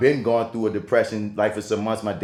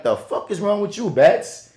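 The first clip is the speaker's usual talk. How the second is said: high, loud mock-alarmed rant at himself; freaked-out voice asking what's wrong with him; incredulous self-scolding; 8 semitones higher, 4 dB louder than usual. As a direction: scold yourself in a panicked high voice. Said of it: "And I'm like".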